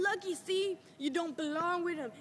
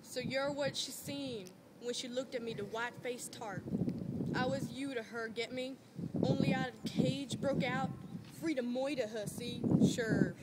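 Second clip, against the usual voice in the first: slow and bitter. Acted. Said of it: "Yank goes on slowly and bitterly".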